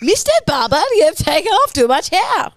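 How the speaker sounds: attempted German accent. Customer to barber about haircut, hammed-up German accent. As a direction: complain in a poor mock German accent. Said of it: "that was your German".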